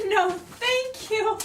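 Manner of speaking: slow, high, loud laughing no; amused queen brushing off a bad report; laughing refusal.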